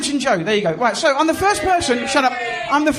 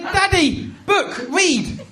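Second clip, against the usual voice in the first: lightly voiced toddler giving orders; demanding toddler; much slower than usual. Son ordering dad to read, lightly demanding. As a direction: imitate a small child's one-word demands. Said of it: "They're not sentences, they're demands".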